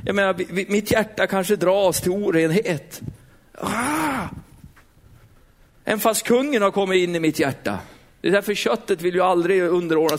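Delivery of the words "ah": high, drawn-out "ah" held back in volume; acted groan "ah". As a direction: let out a strained, acted groan. Acts out being pulled to temptation. (spelat, utdraget stönande)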